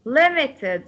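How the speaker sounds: "Limited" with weight on LIM; stress on first syllable. Shown as a demonstration. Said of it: "the stress on limited".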